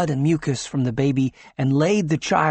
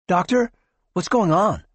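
quavering; 6 semitones higher, 3 dB louder than usual. A narrator's reading. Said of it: "quavered Tina".

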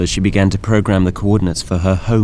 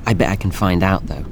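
sly; 3 dB quieter than usual. Acted. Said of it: "Althea said in a sly tone".

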